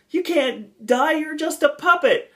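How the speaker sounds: very high, drawn-out retort; slow falsetto comeback; mock puppet-scene protest. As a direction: imitate a cartoonish high-pitched objection. Retold dialogue with dying puppet.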